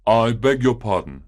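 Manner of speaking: a lightly voiced upset gentleman; a hint of a worried grown man barging in; visitor's voice. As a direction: apologise as the flustered visitor. Agitated visitor bursts in.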